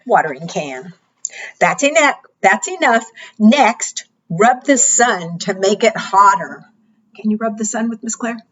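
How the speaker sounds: bright, sing-song storytime voice; kids show host. Acted. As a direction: read it like a preschool teacher. Reading interactive book to children.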